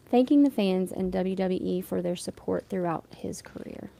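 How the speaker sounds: even, measured reading of a news item; news copy read aloud. Real, not acted. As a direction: read the article out straight and steady.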